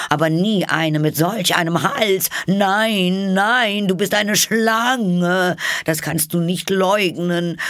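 high, loud, accusing bird voice; scornful pigeon. A narrator's reading. Pigeon insists Alice is a snake, accusing. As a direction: mount to a squawked accusation.

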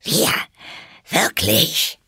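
two outraged, separate exclamations; indignant mouse. A narrator's reading. The mouse answers Alice, trembling and indignant. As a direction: spit back each word as a question. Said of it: "die bis zur Schwanzspitze zitterte".

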